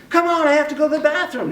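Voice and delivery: high, urgent mock yell; high-pitched exasperated demand, acted; retold yelling. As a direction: plead loudly, imitating an impatient woman. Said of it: "She starts yelling at me".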